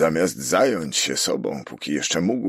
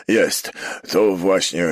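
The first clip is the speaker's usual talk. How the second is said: raised, louder confirmation; exclamation; 4 semitones higher, 6 dB louder, slower than usual. A narrator's reading. Prefect seeing the signature, exclaiming slowly. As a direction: exclaim it, drawing the words out slowly. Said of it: "zawołał".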